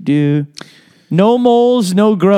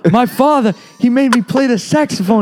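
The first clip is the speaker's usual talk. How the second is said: Bill Clinton voice; 4 semitones higher than usual. Pretend.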